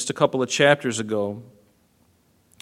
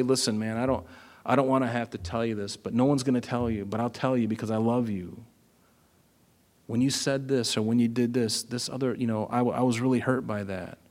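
softer, tender heart-to-heart; gentle and loving; 5 dB quieter than usual. Shown as a demonstration. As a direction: tell a friend a hard truth kindly. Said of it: "approach them with dignity and with love".

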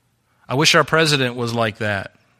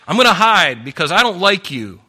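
mock childish voice; 7 semitones higher, 7 dB louder than usual. Mocking a coward.

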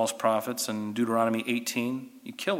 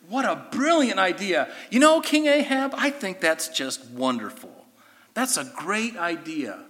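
sarcastic praise; 5 semitones higher than usual. Real, not acted. Teacher mocks King Ahab's brilliant idea, sarcastically. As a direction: praise it so nobody believes you.

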